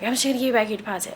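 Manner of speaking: quick, dismissive mimicry; curt, short reply. Imitating the manager offering the deposit back, short and rushed. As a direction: rattle it off to close the matter. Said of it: "he was very short".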